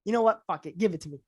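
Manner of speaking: low, quiet, clipped-off agent growl dropping to a mutter; Ari Gold impression. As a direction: give in like a cocky Hollywood agent, voice sinking low. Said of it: "Ari Gold would be like".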